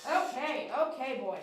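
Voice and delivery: light country twang; country accent. Real, not acted. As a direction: slip into a little country accent. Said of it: "a little country accent".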